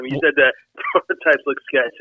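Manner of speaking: talking through a wheezy laugh; real laughing. Real, not acted. Co-host apologizing for laughing at the sketchy prototypes, laughing. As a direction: laugh breaking into the words. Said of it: "are you laughing or wheezing?".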